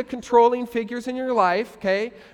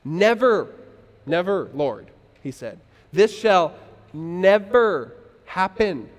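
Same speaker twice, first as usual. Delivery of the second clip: firm rebuke with drawn-out emphasis; slow, emphatic refusal; rebuking; 3 semitones lower, slower than usual. Acted. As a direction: rebuke him firmly, leaning on each NEVER. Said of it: "began to rebuke him".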